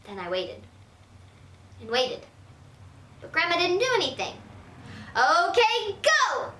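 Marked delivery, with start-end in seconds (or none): 5.1-6.5 higher, more insistent urging; louder. Acted. Girl prodding grandma to act, louder and higher. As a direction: push her harder. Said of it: "I said louder".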